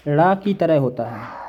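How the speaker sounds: ड़ा stressed, said slowly; slow teaching emphasis. Shown as a demonstration.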